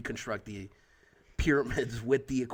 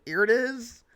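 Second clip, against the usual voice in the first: alien impression; 11 semitones higher, 5 dB louder than usual. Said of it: "the impression of, like, aliens behind the curtain".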